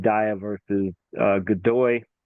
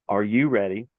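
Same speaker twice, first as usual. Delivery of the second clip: measured referee check, imitated; imitating a referee, unhurried; slowed-down referee call. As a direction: ask it more slowly than the real referee. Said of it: "I'm doing it a lot slower".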